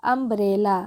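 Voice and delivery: अम्ब्रेला starting with a short "uh"; low, measured अम्ब्रेला, "um-brel-la". Shown as a demonstration. Teacher showing U said as अ, careful "uh" in अम्ब्रेला. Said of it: "अ के रूप में इसका उच्चारण हुआ".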